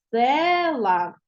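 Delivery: Села with a long stressed Е in the first syllable. Shown as a demonstration. Teacher showing pupils the check word, Села with stressed Е held long. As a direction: stretch the Е of Села, then drop off. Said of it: "падає у нас з вами на Е".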